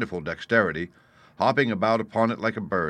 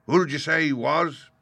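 higher questioning voice; pointed question; 7 semitones higher, 3 dB louder than usual. A narrator's reading. Landlord asking the boy who fled, pointed. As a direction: press the boy for the name.

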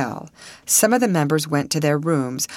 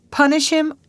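high, louder incredulous question; surprised echo; 13 semitones higher, 5 dB louder than usual. A narrator's reading. Soldier answering girl's worry about punishment, surprised. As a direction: throw it back in surprise.

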